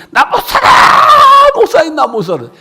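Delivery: retold frantic shout. Wife bursting in on the pastor, frantic high shout.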